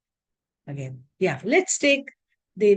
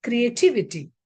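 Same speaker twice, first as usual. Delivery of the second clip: Creativity with the stress on TIV; stress before -ity. Shown as a demonstration. Teacher adding one more example, stress on TIV in Creativity. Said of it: "the stress will be on the syllable before I T Y".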